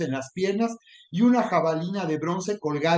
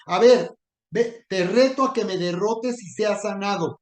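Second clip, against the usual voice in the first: sneering challenge, pitched up and pushed louder; taunting Goliath; 2 semitones higher, 3 dB louder than usual. Pretend. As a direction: jeer at the sick listener like a bully. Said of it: "Que te está diciendo".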